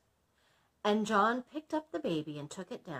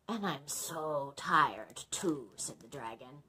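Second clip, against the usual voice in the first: tired dragon; 4 semitones lower than usual. Acted. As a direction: sigh it out, exhausted.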